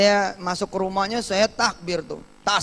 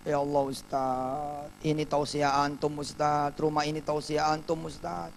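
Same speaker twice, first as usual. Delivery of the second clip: tearful; 4 dB quieter than usual. Retold or imitated. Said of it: "Yang punya rumah nangis".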